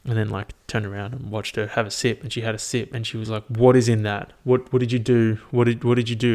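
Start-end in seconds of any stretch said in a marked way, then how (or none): 3.4-6.3 louder, stammered mock alarm; mildly acted freaking out; imitated freak-out. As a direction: retell a panicked demand, punching the words. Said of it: "she's freaking out".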